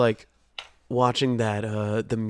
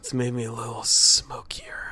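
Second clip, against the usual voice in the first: smoky whispered tone; sultry voice. Real, not acted. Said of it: "your sultry voice right now".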